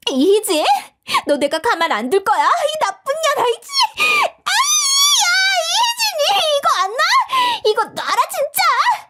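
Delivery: high, shrill screaming; girl shrieking curses in a hair-pulling fight. Acted. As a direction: scream while being held. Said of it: "악을 써댔어요".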